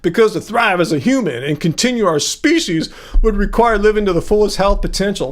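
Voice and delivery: lightly derogatory, with a put-on accent; derogatory reading. Streamer reading a commenter's words off the wall, derogatory manner. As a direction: read the quote in a mildly mocking put-on voice. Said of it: "why am I reading in a derogatory manner?".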